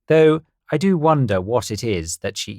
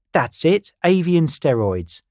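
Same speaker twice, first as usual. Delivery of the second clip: high bird voice; 7 semitones higher, 3 dB louder than usual. Acted. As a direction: play a silly know-it-all bird. Carl voiced in story.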